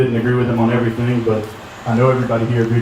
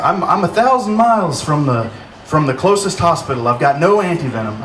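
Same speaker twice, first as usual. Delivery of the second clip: attempted Australian accent, pitched up; 4 semitones higher than usual. Comedian retelling a friend's joke, in attempted Australian accent. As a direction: have a rough go at an Aussie accent. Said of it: "speaking in an Australian accent".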